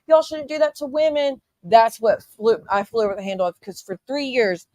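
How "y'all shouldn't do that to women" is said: mocking fake concern. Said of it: "everybody wants to pull out the stops to be like".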